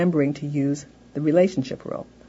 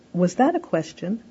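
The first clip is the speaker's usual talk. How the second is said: pointed prompt; 2 semitones higher than usual. Shown as a demonstration. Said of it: "we might use in the prompting phase".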